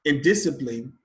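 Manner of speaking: Indiscipline stressed as in-DIS-cipline; stress on second syllable. Shown as a demonstration. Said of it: "on the second syllable".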